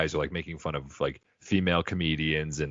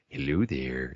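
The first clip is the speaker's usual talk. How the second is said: Orson Welles imitation; 4 semitones lower, 4 dB quieter, slower than usual. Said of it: "always sounds like".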